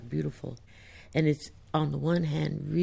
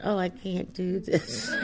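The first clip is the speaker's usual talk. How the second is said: slow, higher, half-laughing whine; playfully mock your own helplessness; mock whiny complaint; 4 semitones higher than usual. Imagining family laughing, she mocks a whiny can't-do-it. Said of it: "if I said".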